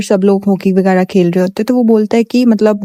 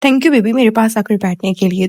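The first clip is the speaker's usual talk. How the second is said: flirty sweet thank you. Retold or imitated. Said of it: "तुम्हें ऐसे बोलना चाहिए".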